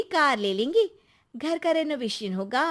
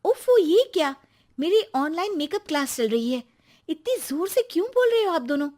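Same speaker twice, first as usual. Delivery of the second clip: irritated outburst; 3 semitones higher, faster than usual. Acted. Wife annoyed by loud talk.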